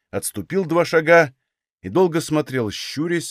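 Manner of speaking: ordinary delivery, nothing marked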